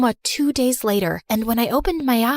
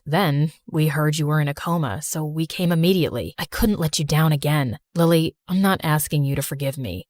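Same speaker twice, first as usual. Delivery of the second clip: remorseful brother Joe; 6 semitones lower than usual. Acted. Brother Joe voiced in story.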